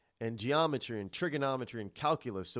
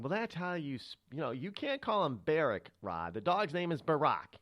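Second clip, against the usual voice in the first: mildly insistent mock correction, higher pitched; listeners' objection; 4 semitones higher than usual. Radio host mimics listeners correcting his pronunciation, mildly insistent. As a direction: lightly imitate a caller setting you straight. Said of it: "people out there saying".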